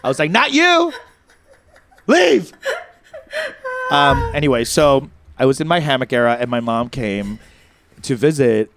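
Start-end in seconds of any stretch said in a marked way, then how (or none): 0.3-2.5 high, comic order to get out; mock banishing yell. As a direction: cry it out high, sending them packing. Retold ordering him out.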